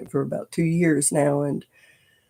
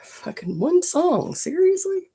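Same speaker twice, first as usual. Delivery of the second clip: high, exasperated whispered curse; annoyed whisper; 14 semitones higher, slower than usual. Real, not acted. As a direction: hiss it at the broken playlist. Music stops during live stream.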